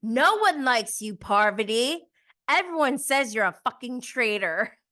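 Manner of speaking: high, loud, disbelieving outburst; talking back at Parvati as if in the room; mock indignant retort. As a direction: let her have it, incredulous. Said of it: "I'm like".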